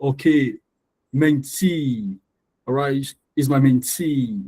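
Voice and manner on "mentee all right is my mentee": "Mentee" with TEE drawn out; long TEE. Shown as a demonstration. Teacher to class: "Mentee" with a long TEE. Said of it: "the T E is longer".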